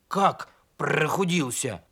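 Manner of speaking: grumbled question with rolled r; mildly growly complaint; grumbling. Acted. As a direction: grumble it in a wolfish voice. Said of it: "проворчал ослик".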